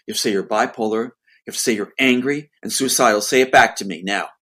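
imitating cold, insistent orders. Sister pressing her brother to confess, cold insistence. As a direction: demand it with firm, punched words. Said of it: "She keeps a cold voice".

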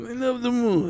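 high, laughing through it; laughing mock dreamy. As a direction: giggle the line out. Mocking repeat of moon line.

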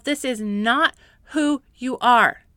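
slow, strong emphatic statement; firm declaration. Real, not acted. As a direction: declare it slowly and firmly. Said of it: "remind yourself".

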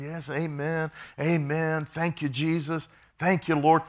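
Baptist prayer-meeting responses. Retold or imitated. Preacher mimics everybody in the office praying, lightly imitated prayer responses. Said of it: "good Baptist prayer meetings".

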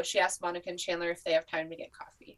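choked-up whisper; barely holding back tears; getting emotional. Real, not acted. Fan tearing up over the finale, whispering. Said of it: "I was also just getting a little bit emotional".

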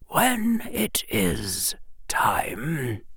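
put-on slow, soft old wizard whisper; said quietly. Old wizard answering Harry, quiet and slow. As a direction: hush it calmly. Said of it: "the old wizard said quietly".

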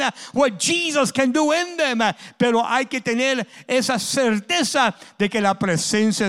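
loud, rhythmic preaching with gasped "ah" beats; full-force preaching. Acted. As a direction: drive each phrase home to the church. Preacher building with "ah" cadence. (predicando con fuerza y ritmo)

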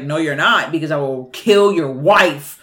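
lightly voiced threatening inner voice; low-pitched mild menace; other voice in head. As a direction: drop the pitch for the killer's threat. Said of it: "other voice in his head".

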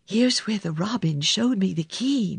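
ordinary delivery, nothing marked

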